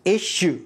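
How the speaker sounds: "Issue" on its own, with a clear "sh"; demonstrated pronunciation. Shown as a demonstration. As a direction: say "Issue" as ISH-oo. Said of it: "كيف نطقت؟ ركز". (نطق "Issue" بوضوح بصوت الشين)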